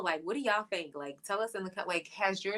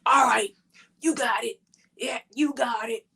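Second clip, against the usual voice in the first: louder, higher, exaggerated giving in; mock husband backing off; 5 semitones higher, 7 dB louder than usual. Wife retelling husband's reply about the freezer, exaggerated concession. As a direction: imitate a husband throwing up his help.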